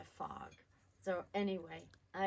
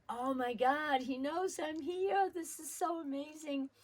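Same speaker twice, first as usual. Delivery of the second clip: put-on 1 thrilled child; 6 semitones higher, 3 dB louder than usual. Child thrilled plane saw her.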